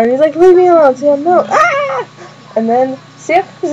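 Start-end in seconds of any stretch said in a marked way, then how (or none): 0.3-2.1 high, loud panicked pleading; mock panic. Retelling Freddy running away from Sam, mock panic. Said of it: "And then he runs out".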